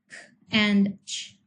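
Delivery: "K" and "ch" as bare sounds without voice; unvoiced consonant sounds. Shown as a demonstration. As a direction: say "K" as a short k release and "ch" as in catch. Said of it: "are unvoiced consonant sounds".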